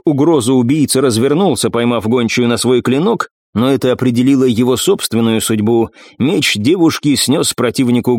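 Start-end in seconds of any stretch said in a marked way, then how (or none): none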